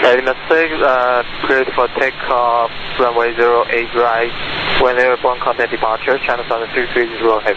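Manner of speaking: pilot radio readback. Real, not acted. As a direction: read it back over a crackly radio.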